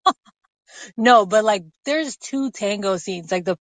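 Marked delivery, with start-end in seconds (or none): 0.1-0.1 giggling through a fake scold; mock outrage breaking into laughter; laughing at the screen. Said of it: "I was just like".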